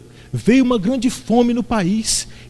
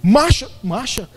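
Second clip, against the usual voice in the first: army general's command; 2 semitones higher, slower than usual. Retold or imitated. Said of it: "igual general de exército".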